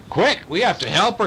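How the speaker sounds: yell. A narrator's reading. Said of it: "yelled Marsh".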